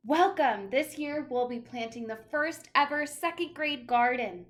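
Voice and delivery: big announcement. Acted. Teacher announcing the class garden, loud and bright. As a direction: proclaim it to the class.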